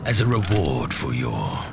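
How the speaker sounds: low, hushed, menacing lord; cold dark lord, low and half-whispered; scheming dark lord. Acted. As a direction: whisper your orders like a warlord plotting. Narrator voicing the dark lord.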